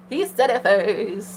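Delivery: drawn-out, savoring each word; slow emphasis. Real, not acted. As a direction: stretch it to savor the moment. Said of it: "repeats slowly".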